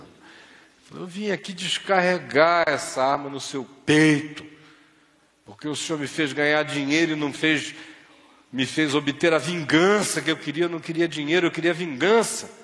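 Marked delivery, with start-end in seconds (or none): 1.0-12.5 a bit louder, menacing retold threat; gunman's threat. Gunman tells the lawyer he came to shoot him, menacing. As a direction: voice the gunman's grudge, pressing.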